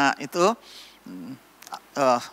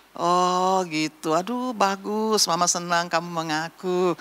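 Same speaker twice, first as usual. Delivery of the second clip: pleased mother. Acted. Mother praising her child for confessing, mild tenderness. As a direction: draw it out like a touched mama.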